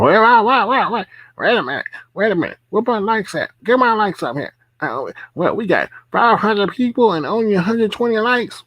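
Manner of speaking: high-pitched awful mock streamer voice; Bless impression. Streamer halting her panel to beg for likes, hammed-up impression. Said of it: "that was an awful impression".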